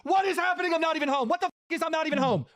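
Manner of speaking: high-pitched, incredulous exasperation; exasperated outburst. Real, not acted. Host hears guest is not home, exasperated outburst. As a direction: explode in disbelief at being stood up.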